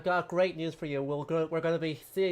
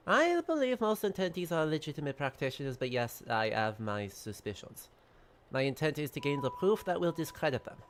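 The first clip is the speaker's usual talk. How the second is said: put-on French accent. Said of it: "terrible French accent".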